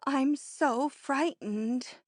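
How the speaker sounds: slow, tearful fear; frightened, near tears. Acted. Sobbing, frightened.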